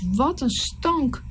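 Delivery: slow, drawn-out disgust; a touch of revulsion; disgusted exclamation. Acted. Narrator reacting to the bloody Nile, mildly disgusted.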